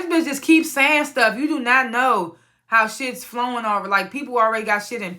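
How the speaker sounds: high exasperated rant. Retold or imitated. Narrator's own exasperated reaction.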